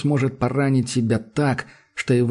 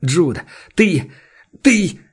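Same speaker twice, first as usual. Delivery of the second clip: sputtering fury; 6 semitones higher, 5 dB louder, much slower than usual. A narrator's reading. Энди не может договорить.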